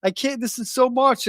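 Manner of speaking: high, strained, tearful-sounding replay of a breakdown; retold breakdown. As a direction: relive the moment your voice cracked at therapy. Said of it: "And I just broke down".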